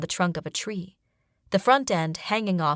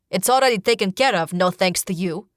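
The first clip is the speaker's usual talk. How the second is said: fast, louder curt retort; snapping; 4 dB louder than usual. Acted. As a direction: cut him off sharply. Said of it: "Ruku snaps".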